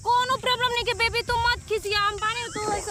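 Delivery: a hint of a pleading flirt. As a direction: coax her to calm down, playful.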